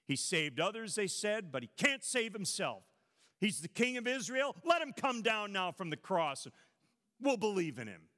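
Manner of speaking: mocking, jeering crowd voice; mock taunt. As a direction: sneer it like the mockers at the cross. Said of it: "they taunted".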